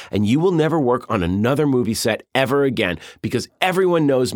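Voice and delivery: mild mock yell at an extra; retold yell. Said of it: "he would scream at him".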